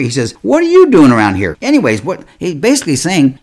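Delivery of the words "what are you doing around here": put-on louder, higher scolding as angry older brother; acted-out angry challenge. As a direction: demand it like an irritated big brother. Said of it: "he was angry".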